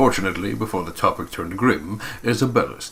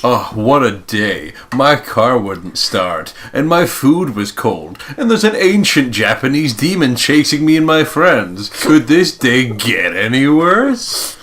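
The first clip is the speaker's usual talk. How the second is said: mock lament; 3 semitones higher, 5 dB louder, slower than usual.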